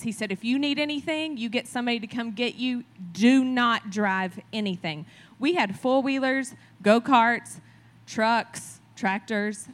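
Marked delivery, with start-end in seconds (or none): 0.3-5.1 serious father. Retold or imitated. Dad warning his daughter not to drive, a hint of stern. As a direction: spell out the rule, hammering the final order. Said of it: "And he was very serious".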